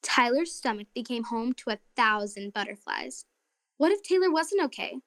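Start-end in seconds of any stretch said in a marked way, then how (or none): 3.8-5.0 higher-pitched, worried what-ifs; anxious. A narrator's reading. Narrator voices Tyler's fears for his twin, anxiously. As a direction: let worry lift each question.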